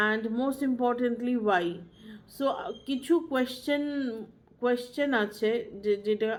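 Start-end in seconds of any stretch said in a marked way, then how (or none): 0.1-1.7 slow maxim. Shown as a demonstration. Teacher stating a key maxim.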